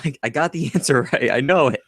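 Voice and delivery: excited Marty. Retold or imitated. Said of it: "Marty's so excited".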